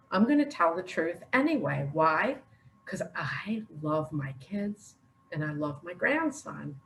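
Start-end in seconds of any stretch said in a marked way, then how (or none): 2.8-6.8 choked up. Real, not acted. Emotional confession about her grandson.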